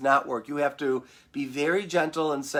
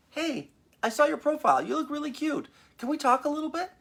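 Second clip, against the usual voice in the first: flirty come-on; 11 semitones higher than usual. Retold or imitated. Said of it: "But how about flirting?".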